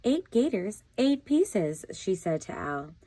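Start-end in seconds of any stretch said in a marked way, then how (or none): 0.0-1.8 alarmed counting. A narrator's reading. Alice counts the gators in alarm.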